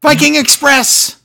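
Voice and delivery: high, loud, stretched announcer shout; over-excited slow holler; imitated excited yell. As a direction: mimic a commentator suddenly thrilled. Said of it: "the most excited he was all night".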